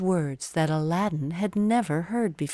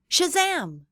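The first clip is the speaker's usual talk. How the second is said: magic word; 11 semitones higher than usual. A narrator's reading. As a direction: announce the magic with a burst. Magic sound of the genie.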